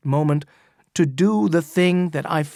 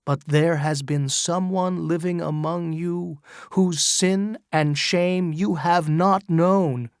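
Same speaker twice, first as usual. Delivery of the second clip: crying out to the crowd; 3 semitones higher than usual. Acted. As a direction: proclaim it to the whole crowd. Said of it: "he cried".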